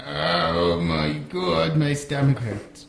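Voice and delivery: very slow, groaning mock Jewish accent; drawn-out bellyaching in mock Jewish accent; pained Jewish-accent impression. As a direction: moan it in a bad Jewish accent. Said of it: "sound like he's in pain".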